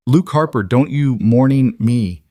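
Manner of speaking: a high, loud, stern neighbour scolding; stern but worried. Acted. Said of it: "Linda's voice was stern but worried".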